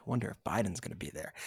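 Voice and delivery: low, soft throwaway wondering; joking aside. Retold or imitated. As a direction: toss it off quietly, half-joking. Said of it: "almost as a joke".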